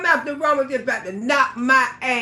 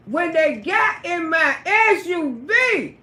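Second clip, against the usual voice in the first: slow, deliberate; slower than usual. Shown as a demonstration.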